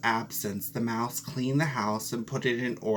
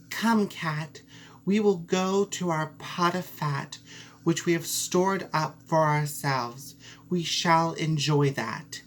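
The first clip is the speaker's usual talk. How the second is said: higher, friendly mouse voice; cheerful mouse; 4 semitones higher than usual. Acted. Mouse invites the cat to the pot of fat, higher. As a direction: call the cat along brightly.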